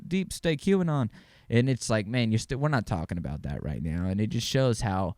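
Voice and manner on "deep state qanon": high-pitched put-on voice of a deflecting objector; mock whataboutism in a raised pitch; mocking deniers. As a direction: mimic them in a silly high voice. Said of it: "and they're like".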